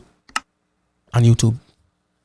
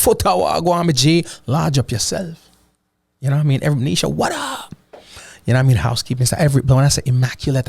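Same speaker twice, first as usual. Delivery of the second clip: slips into a broader Jamaican accent, hyped up; excited, thicker Jamaican accent. Real, not acted. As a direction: let the Jamaican patois take over in excitement. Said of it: "I start talking like this".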